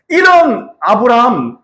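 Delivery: slow, voice breaking with tears; tearful. Real, not acted. Preacher recalls God's love, choked up with tears. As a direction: hold back real tears as you speak.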